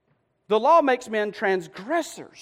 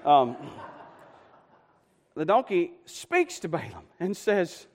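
ordinary talk, nothing marked

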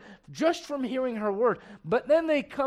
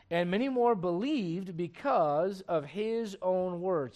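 measured King James reading to the congregation; scripture reading; slower than usual. Acted. Pastor reading John four to the church, measured scripture voice. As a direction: read the verses steady and deliberate.

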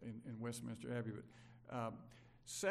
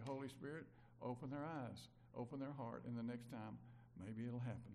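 quiet prayer; 3 semitones lower, 5 dB quieter than usual. Shown as a demonstration.

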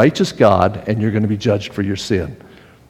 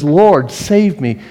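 slow, loud, higher cry for help; screamed plea; 4 semitones higher, 4 dB louder, much slower than usual. Retold or imitated. Peter sinking, crying out to be saved. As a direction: cry out desperately and slowly. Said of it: "he screams out".

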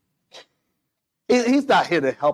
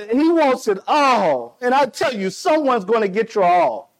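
higher, emphatic sermon warning; impassioned preaching; 3 semitones higher than usual. Real, not acted. Preacher warning that someone will claim everything, emphatic and high. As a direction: press it urgently on the congregation.

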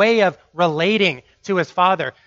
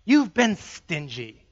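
resentful son. Acted. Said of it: "he thinks his father has been withholding".

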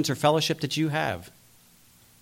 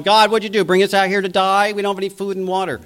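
higher, louder mock complaint at God; retold Israelites whining at God, higher and louder; complaining Israelites; 5 semitones higher, 3 dB louder, faster than usual. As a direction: play the grumbling crowd, a touch hammed-up. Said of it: "and they're going".

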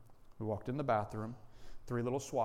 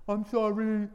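put-on reluctant child; 8 semitones higher, 7 dB louder than usual. Daughter made to apologise.

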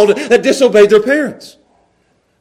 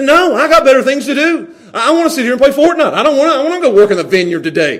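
raised, quick defiant refusal; rebellious son; 4 semitones higher, faster than usual. Acted. Rebellious son refuses father's order, defiant. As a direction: refuse Dad like a defiant kid. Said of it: "the rebellious son".

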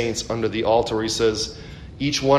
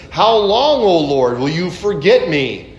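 high, raised cry to God; psalmist's raised lament; 7 semitones higher, 4 dB louder than usual. Acted. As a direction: plead like the hunted David. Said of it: "where David says".

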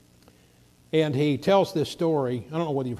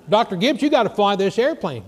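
urgent yell; 7 semitones higher, 7 dB louder than usual. Retold or imitated. Preacher in back seat urges.

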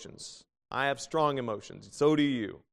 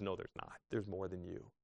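soft reply; 6 semitones lower, 12 dB quieter than usual. Acted. God answers Elijah gently.

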